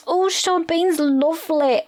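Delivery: high, slow, dreamy mock gush; swooning friend. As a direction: gush like a smitten schoolgirl. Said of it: "Steph was like".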